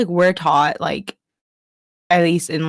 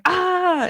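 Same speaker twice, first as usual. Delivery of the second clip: mimicked yell; 12 semitones higher than usual. Showing how people yell, mock high cry. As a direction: imitate a small high yell.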